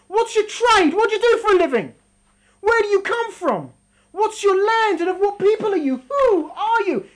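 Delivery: high, loud accusing questions; accusing interrogation. Acted. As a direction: grill the soul, blaming it. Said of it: "So he says".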